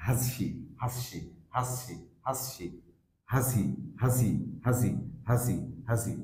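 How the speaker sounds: "হাসি" as reduced has run into the pronoun; weak form, linked. Shown as a demonstration. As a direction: say "হাসি" as one word with an uh vowel. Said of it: "উইক sound হচ্ছে". ("হাসি" ছোট স্বরে জুড়ে)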